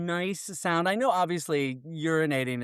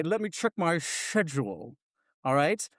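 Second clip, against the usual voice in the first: Sean Connery impression. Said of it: "sound like Sean Connery impersonator".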